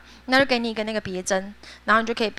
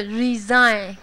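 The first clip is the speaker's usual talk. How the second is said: "resign" with a showy z; exaggerated affected resign; 2 semitones lower than usual. Shown as a demonstration. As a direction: overdo the foreign sound. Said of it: "有没有很做作". (做作地念 resign)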